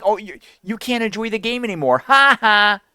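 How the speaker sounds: high-pitched imitation of a taunt; put-on mocking sneer with forced laugh. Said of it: "you're mocking them, saying".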